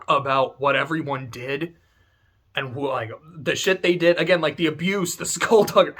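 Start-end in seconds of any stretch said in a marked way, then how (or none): 5.2-5.9 skullduggery gelachen en hoog uitgeroepen; relishing the word. Real, not acted. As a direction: savour skullduggery with a giggle, higher and louder. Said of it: "I love that word".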